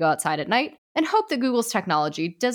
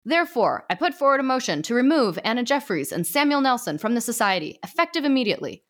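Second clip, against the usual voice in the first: a lightly raised, formal judge voice; stern ghost judge; 6 semitones higher than usual. Acted. Judge addressing the ghost society, lightly formal. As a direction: pronounce it from the bench, gently raised.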